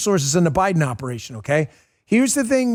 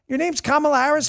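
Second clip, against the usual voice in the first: sarcastic disbelief; 6 semitones higher, faster than usual. Real, not acted. Host sarcastically questions her name.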